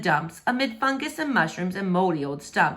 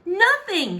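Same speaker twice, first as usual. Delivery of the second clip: glum princess; 11 semitones higher, 4 dB louder than usual. Acted. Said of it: "she thought".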